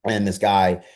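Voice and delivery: ordinary delivery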